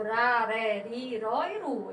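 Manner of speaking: ra, ré, ri, ró, ru with a light tapped R; soft R. Shown as a demonstration. Teacher listing ra, ré, ri, ró, ru, soft R. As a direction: run through ra, ré, ri, ró, ru with a quick tongue tap. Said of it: "De forma mais branda".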